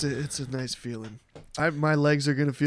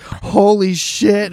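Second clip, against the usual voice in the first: mock swooning women; 6 semitones higher, 6 dB louder, much slower than usual. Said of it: "all these women that are just like".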